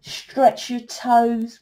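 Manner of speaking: slow, drawn-out mock spiritual voice; mocking other healers. Mocking rival healers to her viewers, slow and sing-song. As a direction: parody of a dreamy healer, dragged out slowly. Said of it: "I'm not like the others".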